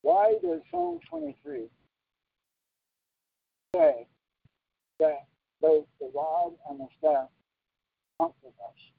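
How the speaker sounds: slow question, broken by pauses. Real, not acted. Preacher puts a question while signing, very slow. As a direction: ask it slowly, phrase by phrase. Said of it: "I'm talking very slow".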